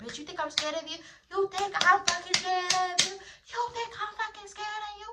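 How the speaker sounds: mock, very high, shrill, furious yelling. Telling how a woman made a scene, retelling her yelling. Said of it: "She's yelling".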